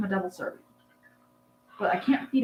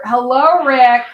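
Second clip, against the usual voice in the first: louder, higher sing-song greeting to the bird; cooing at pet; 4 semitones higher, 12 dB louder, slower than usual. Real, not acted.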